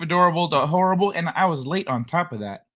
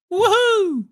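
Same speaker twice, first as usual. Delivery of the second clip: high, bright cheer; excited whoop. Real, not acted. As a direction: let out a happy whoop. Streamer cheering to start show.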